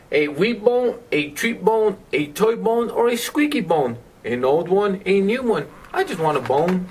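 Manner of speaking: singsong storytime read-aloud; reading to children. A narrator's reading. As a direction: read the pleading dog's lines playfully to a child. Reads dog book to child.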